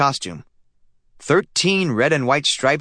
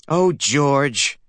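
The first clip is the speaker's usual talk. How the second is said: blushing; 3 semitones higher than usual. A narrator's reading. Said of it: "blushed Stanley's mother".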